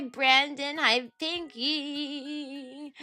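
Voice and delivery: usual speaking voice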